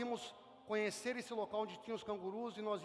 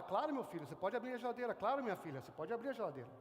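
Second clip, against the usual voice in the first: a father's softer, lower yes; kindly father; 3 semitones lower, 4 dB quieter, faster than usual. Retold or imitated. Father answers his child at the fridge, soft and kindly. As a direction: gently grant permission like a loving dad. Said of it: "Seu pai fala".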